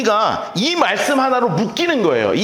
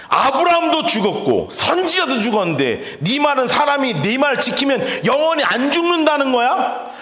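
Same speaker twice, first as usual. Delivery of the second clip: higher, indignant shouting match; heated taunt; 6 semitones higher than usual. Acted. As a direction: jeer at him like an angry crowd. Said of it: "진짜 열받은 거예요". (열받은 유대인들의 높은 목소리 항의)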